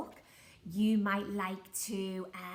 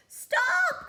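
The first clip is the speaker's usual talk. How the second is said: much higher, loud command; shouted stop; 10 dB louder than usual. Acted. Pirate captain halting the plank walk, loud shout. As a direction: call a halt at full volume. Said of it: "called Handkerchief".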